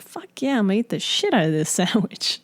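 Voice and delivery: retold excitement, pitch leaping at the start; a touch of eager hype; kind of excited. Psyching herself up to eat a sandwich, kind of excited. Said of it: "I'm, like, kind of excited".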